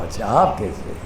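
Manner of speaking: lovingly. Shown as a demonstration. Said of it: "آپ نے بڑے پیار سے کہا".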